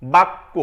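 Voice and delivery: বাক্য with doubled k, rising; teacher's model word; pronounce bakko. Shown as a demonstration. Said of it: "আমি দিলাম".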